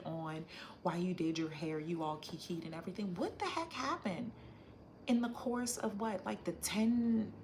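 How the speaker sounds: lightly voiced friend worried; imitating worried bestie. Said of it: "And she's like".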